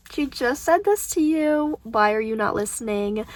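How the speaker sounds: slow exasperated telling-off aimed at a character; frustrated scolding. Real, not acted. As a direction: drag it out, fed up with him. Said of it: "I'm just getting frustrated".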